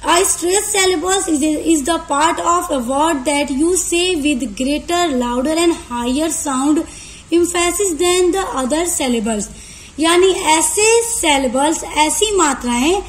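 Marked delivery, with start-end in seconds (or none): 0.1-9.4 very slow, even reading of a definition; slow dictation. Shown as a demonstration. Teacher slowly dictating an English definition to students. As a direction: read the definition out word by word. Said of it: "stressed syllable को भी आप समझिए".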